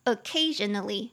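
occasionally with the stress on CA; oc-CA-sion-al-ly, teacher demonstrating the stress in occasionally; stress on second syllable. Shown as a demonstration. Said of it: "重音节在第二音节".

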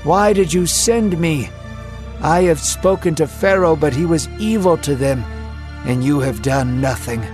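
a pained cry of a guilty leader. Acted. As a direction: Moses cries out to God for his suffering people. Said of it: "he cried".

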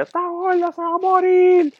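high, slow mocking voice. Mocking what people said about her dog, high voice. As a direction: sneer it in a high put-on voice. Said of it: "le dijeron a la peja".

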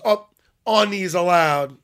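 mocking slow echo of the ref; drawn-out mimicry. Ref echoing the translator's question, mocking drawn-out mimicry. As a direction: stretch out "are knees allowed". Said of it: "he goes".

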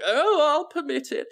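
put-on high, regal old queen granting leave; Queen Victoria voice. Queen Victoria granting time travel, high and regal. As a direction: lightly voice a haughty queen. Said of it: "she's like".

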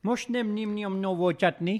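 slow attempt at a southern Russian accent. Shown as a demonstration. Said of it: "like, a southern Russian accent on that one".

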